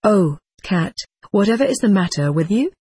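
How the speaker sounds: lightly exasperated, a little quick; a touch of impatience with the cat, hurried; mild exasperation. Acted. Boy pestered by his cat, mildly exasperated. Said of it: "I asked in exasperation".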